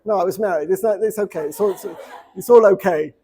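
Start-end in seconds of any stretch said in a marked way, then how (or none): 1.5-3.1 laughing it off. Real, not acted. Laughs at his own slip.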